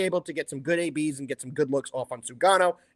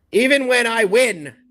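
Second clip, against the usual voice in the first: mock sarcastic; 9 semitones higher than usual. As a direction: rib your co-host in a sing-song voice. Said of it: "Just giving you a hard time".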